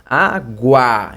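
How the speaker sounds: ÁGUA split in two, "á... GUA", with a full final A; deliberate two-beat água; strong final A. Shown as a demonstration. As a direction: sound out água so the last A stands out. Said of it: "o A tem um som mais forte".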